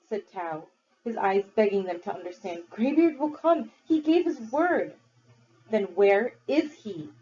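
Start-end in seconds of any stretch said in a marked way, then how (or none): 2.7-5.0 put-on high, begging boy voice; pleading boy. 5.7-7.1 demanding. Acted. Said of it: "demanded Volt".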